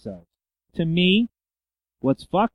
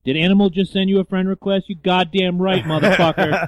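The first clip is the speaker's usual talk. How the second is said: excited cheering; 6 semitones higher, 9 dB louder than usual. Real, not acted. Cheering a friend request from Animal.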